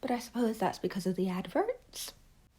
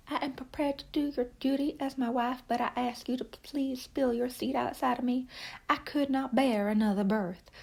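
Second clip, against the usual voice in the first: bad Southern accent; 4 semitones higher than usual. Reviewer quoting Randall McCoy's wife in a bad Southern accent. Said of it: "my Southern accent impersonation so bad".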